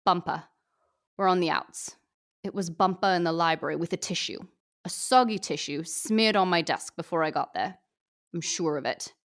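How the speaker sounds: put-on a light Australian accent as Fat Amy. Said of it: "my first crack at an Australian accent".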